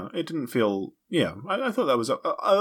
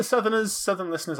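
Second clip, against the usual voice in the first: gushing shout-out; 6 semitones higher than usual. Acted.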